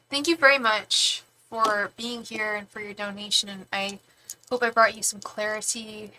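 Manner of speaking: breathless after running stairs; winded, catching breath. Real, not acted. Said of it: "Sorry, I'm out of breath".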